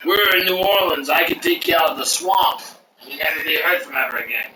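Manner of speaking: imitated New Orleans accent with a threatening edge. New Orleans owner threatening the chef, imitated local accent. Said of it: "Isn't that, isn't that a strange accent to hear?".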